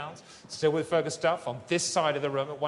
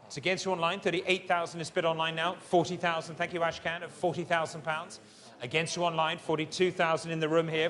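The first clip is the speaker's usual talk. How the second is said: fine art auctioneer. Acted. Live art auction calling bids.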